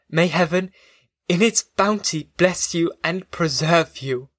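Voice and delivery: understated, holding back tears; a brave farewell barely holding emotion; half-suppressed emotion. Acted. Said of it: "in a voice of half-suppressed emotion".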